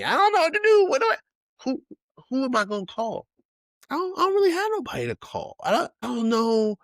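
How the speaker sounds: high falsetto panicky rambling; hammed-up helpless panic in a high voice; mock panic. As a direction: sound lost with nobody to call. Imagined stranded and chased.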